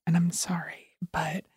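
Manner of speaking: hushed whisper, hiding from family; whispering while hiding. Real, not acted. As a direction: whisper so no one hears. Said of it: "I'm hiding in the bathroom right now recording this".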